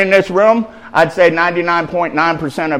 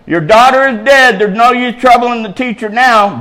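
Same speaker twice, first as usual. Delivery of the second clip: raised, higher-pitched preaching read; scripture reading; 7 semitones higher, 4 dB louder than usual. A narrator's reading. Preacher reading scripture to congregation, declaiming.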